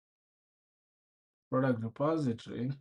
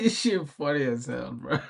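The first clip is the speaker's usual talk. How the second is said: laughing; 2 semitones higher, 5 dB louder than usual. Real, not acted. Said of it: "I can't stop laughing".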